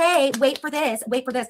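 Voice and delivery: put-on teasing, high, lilting sing-song. Quoting the listener's own teasing line back, imitating a sing-songy taunt. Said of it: "you're doing this sing-songy voice like".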